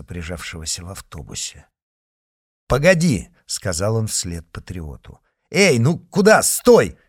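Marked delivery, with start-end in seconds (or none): 2.7-3.3 loud, high call after someone; urgent call. A narrator's reading. Mitya calling after the patriot. 5.5-7.0 loud, high call after someone; urgent call. A narrator's reading. Mitya calling after the patriot.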